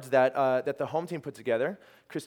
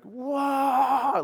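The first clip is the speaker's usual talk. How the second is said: a high, loud, laughing whoa; amazed whoa; 12 semitones higher, 6 dB louder than usual. Real, not acted. The team reads the card's verse and gasps, laughing in amazement. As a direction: burst out in astonished laughter. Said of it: "totally freaking out".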